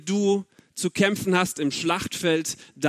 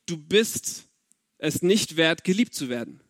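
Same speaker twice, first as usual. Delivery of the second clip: hurtful inner voice; 5 semitones lower than usual. Retold or imitated. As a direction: let it drop like a painful old belief. His own inner voice when single.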